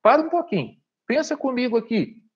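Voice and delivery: direct chat with viewer. Shown as a demonstration. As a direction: stop the viewer and pull them in, upbeat. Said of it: "E pra isso você pode falar, ó".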